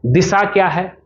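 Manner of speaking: usual speaking voice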